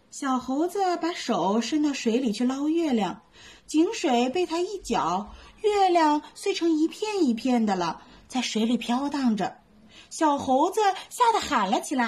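lively bedtime story reading; storytelling for kids. A narrator's reading. Mom reading a bedtime story to little ones, lively.

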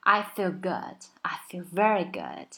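easy tongue on feel, no R colour; light, relaxed feel. Shown as a demonstration. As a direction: feel with a loose, uncurled L. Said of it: "云淡风轻".

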